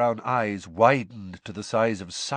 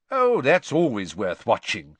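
enthusiastic; 6 dB louder than usual. A narrator's reading. Mr Weasley enthusiastic.

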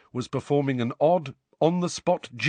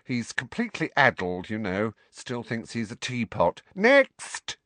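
dismissive. Acted.

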